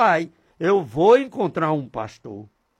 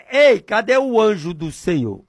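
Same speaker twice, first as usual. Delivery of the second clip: raised calling voice; calling on God; 3 semitones higher, 4 dB louder than usual. Shown as a demonstration. Preacher shows how he asks God for the angel, calling out. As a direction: call out as if hailing someone. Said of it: "Eu digo desse jeito".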